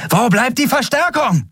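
high, strained call over the din; shouting over noise. A narrator's reading. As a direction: call out above the battle noise. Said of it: "rief sie über den Lärm".

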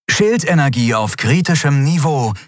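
even, falling machine announcement; ship's computer voice. A narrator's reading. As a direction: read it like an onboard AI warning. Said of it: "verkündete die künstliche Stimme des Schiffes".

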